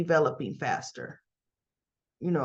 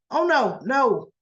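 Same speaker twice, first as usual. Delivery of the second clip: higher, emphatic acted refusal; mock indignant no; retold firm refusal; 4 semitones higher, 4 dB louder, slower than usual. Recapper voicing Cam refusing to be friends, indignant.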